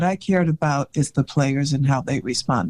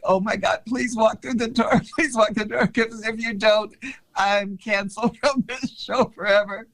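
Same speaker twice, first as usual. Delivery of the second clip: anxious; 5 semitones higher than usual. Retold or imitated. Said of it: "And I'm so anxious".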